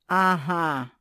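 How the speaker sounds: loud mocking aha; sneering aha. A narrator's reading. Former assistant grimaces at the disobedience, sneering. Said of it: "скривилась её бывшая помощница".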